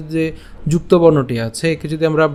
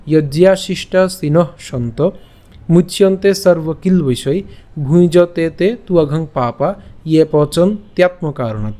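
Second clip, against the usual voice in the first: slow, careful verse reading; pure Sanskrit recitation. Shown as a demonstration. Teacher repeats the whole verse for learners, slow Sanskrit recitation. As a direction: recite deliberately, each word distinctly pronounced. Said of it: "আমি আবার বলছি".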